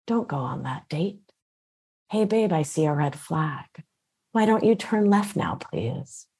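like a kind inner guide steering you away; calm intuition voice. Shown as a demonstration. Intuition warning against a bad date, soft and calm. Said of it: "sounds like this".

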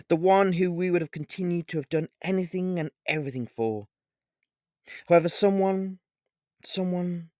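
a lightly voiced vampire king, grave and dramatic; a hint of a menacing vampire lord; vampire king's speech. A narrator's reading. Vanguard addresses Olivia dramatically.

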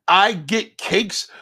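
very slow, stretched-out mock boast; mocking quote. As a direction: drag each word to ridicule the boast. Mocks the boast once more.

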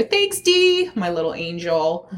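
sweet singsong thanks. Real, not acted. Playful thanks to coworker mid-story.

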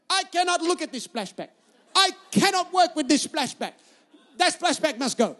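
emphatic mock Bulgarian wife; high Bulgarian-accented ultimatum, dropping at the end. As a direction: refuse dramatically in an imitated Bulgarian accent. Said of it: "in her little Bulgarian accent".

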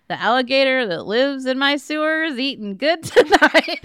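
laughing through a loud mock announcement. Joking to her co-host, laughing loudly. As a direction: blurt it out laughing. Joke quote after shower remark.

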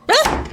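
sudden high startled cry; startled yelp. Real, not acted. Luna, startled by the librarian behind her, yelps in fright. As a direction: jump out of your skin with a shriek.

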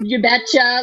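put-on Minnesotan accent. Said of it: "it gets really bad".

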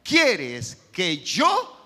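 slow, drawn-out fearful plea; trembling and fearful. Acted. Saul, struck down on the road, asks the Lord in fear. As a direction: let the question quake and stretch out. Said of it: "temblando y temeroso".

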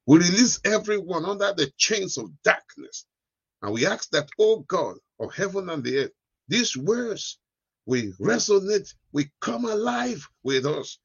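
fervent preacher's prayer; praying. Real, not acted. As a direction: pray it out with rising fervour. Leads a closing prayer.

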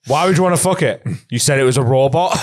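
high, loud disbelieving officer; baffled, raising the voice; incredulous. Retold or imitated. Retold officer replying, incredulous.

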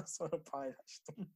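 slow, still laughing; words through leftover laughter; after laughing hard. Real, not acted. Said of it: "kahkaha attım".

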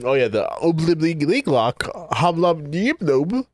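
slow, playful made-up Sims babble; Sims gibberish. Pretend. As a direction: mumble nonsense like a Sim character. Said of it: "the sim language".

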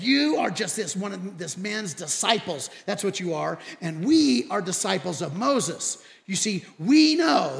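mildly indignant, slowing toward the end; retold angry insults. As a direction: hurl it back with proud disdain. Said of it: "They got angry at that. They hurled insults".

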